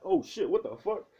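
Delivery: high, loud jolt of surprise; mock shock at being snuck up on; acted startled yelp. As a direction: jump out of your skin, voice shooting up. Acted startled reaction to ambush.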